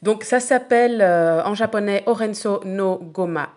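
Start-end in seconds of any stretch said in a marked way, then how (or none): 2.0-3.5 Orenso no Gomae said as a Japanese dish name in a self-admitted clumsy accent; attempted Japanese. Real, not acted. Cook telling listeners the dish's Japanese name, clumsy Japanese pronunciation. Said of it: "Désolée pour mon superbe accent japonais".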